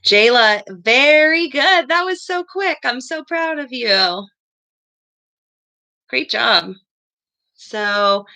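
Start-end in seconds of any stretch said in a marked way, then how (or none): 0.7-6.7 excited praise. Real, not acted. Teacher praises a quick student.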